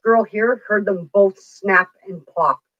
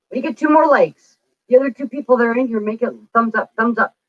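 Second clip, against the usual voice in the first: eager plea; 6 semitones higher than usual. Real, not acted. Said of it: "begging viewers for likes".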